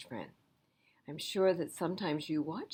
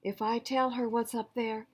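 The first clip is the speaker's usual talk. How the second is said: put-on higher child's pleading voice; child asking for help; 4 semitones higher, 3 dB louder than usual. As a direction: plead like a small kid in trouble. Jessie's plea voice.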